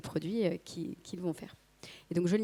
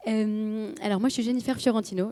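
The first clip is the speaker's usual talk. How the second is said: hoarse, worn-out voice; voice giving out; 2 semitones higher than usual. Real, not acted. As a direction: speak through a nearly lost voice. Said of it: "J'ai perdu ma voix". (voix enrouée presque éteinte)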